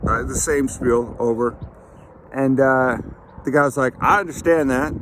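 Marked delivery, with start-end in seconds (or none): 4.0-4.9 mock Southern accent, higher pitched. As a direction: imitate a guy with a light Southern accent. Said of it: "I'm talking in a southern accent".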